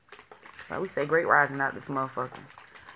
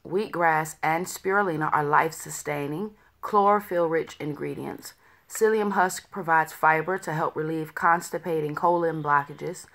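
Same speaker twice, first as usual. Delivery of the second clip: louder label read-out; 3 dB louder than usual. Acted. Reads the product label.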